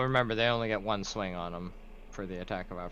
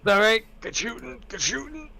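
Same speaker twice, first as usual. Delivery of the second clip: squeaky high-pitched praise; high excited cheer; 8 dB louder than usual. Real, not acted. Player cheers a good roll.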